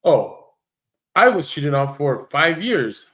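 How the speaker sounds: mock quote. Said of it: "they don't sit there and say things like".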